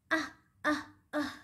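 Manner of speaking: short, pretend "ah" of hurt; three little play-acted ouches; mock cries of pain. Teacher as the monkey with a bumped knee, mock pained cries.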